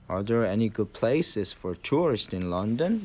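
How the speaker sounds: very slow, rising at London; slow model question. Shown as a demonstration. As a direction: read it slowly as a model. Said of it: "이렇게 물어보면". (천천히 묻는 예문 읽기)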